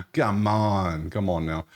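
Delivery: exasperated come on. Real, not acted. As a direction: throw it up in disbelief. Exasperated at bad matchup.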